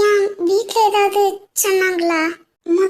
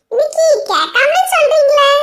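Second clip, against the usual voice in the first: laughing tease; 6 semitones higher than usual. Acted. Teasing her declaration.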